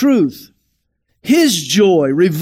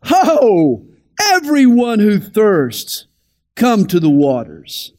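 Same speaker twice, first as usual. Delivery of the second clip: slow, mildly raised proclamation, settling at the end; crying out; slower than usual. Retold or imitated. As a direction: call out slowly like a prophet summoning a crowd. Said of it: "He cries out".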